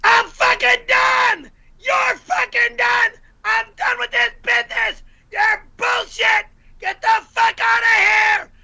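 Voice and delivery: high, strained screaming rant; full scream. Acted. The speaker screams the donated line for viewers, full raging scream. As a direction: scream it like you truly quit. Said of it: "do it like you're really, uh, screaming".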